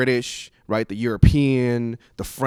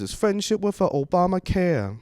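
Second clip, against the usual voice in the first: higher-pitched mock Asian accent; 6 semitones higher than usual. Twisting the pickup line into a political joke, Asian accent. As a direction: slip back into the put-on Asian accent. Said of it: "don't knock the Asian accent".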